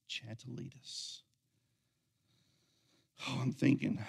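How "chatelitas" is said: put-on child's voice. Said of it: "in a five-year-old voice".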